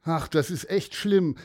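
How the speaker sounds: put-on sad girl. Girl tells the bird about the trouble, glum. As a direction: sigh it like a glum nine-year-old. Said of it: "sagte Leni".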